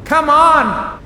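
high, loud shout of urging; big sister urging the filly over the storm; urgent scream. A narrator's reading. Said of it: "she had to scream to even hear herself".

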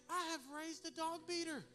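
mock horror. Horrified father retelling his realisation.

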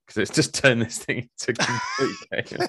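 talking with a pen in his mouth; words round a pen held in the mouth. Real, not acted. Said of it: "it looks like a pen in his mouth".

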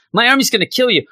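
a hammed-up villain threatening. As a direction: repeat the threat bigger as Mojo. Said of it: "So Mojo says".

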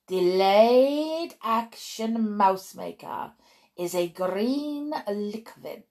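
put-on accented, commanding witch lecturer; deliberate lecture in a foreign-accented witch voice. Witch instructing her audience of witches, commanding accented voice.

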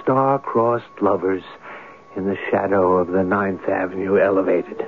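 measured, brooding radio narration; story narration. A narrator's reading. Writer narrates his plan to sleep in the room, brooding.

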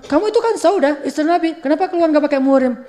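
mildly acted stern challenge; scolding Umar. Companion confronts Saudah for going out alone, scolding. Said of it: "dimarahin sama Umar".

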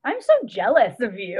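laughing while saying it; a laughing, jealous groan; playful envy through laughter. Real, not acted. Laughing envy at gymnastics story.

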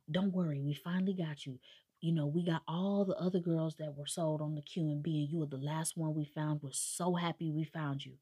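gently soothe, as a storyteller would act it; acted reassurance. Retold rescuers to the girl they found, soothing.

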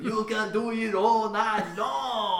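slow high cheer with laughter; laughing cheer. Pretend.

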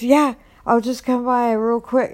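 high, breezy imitation of his answer; eager retelling. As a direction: mimic him cheerfully insisting.

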